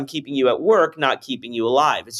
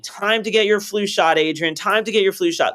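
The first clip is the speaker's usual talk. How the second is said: nagging reminder; 4 semitones higher than usual. Retold or imitated. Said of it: "they came around every year and they're like".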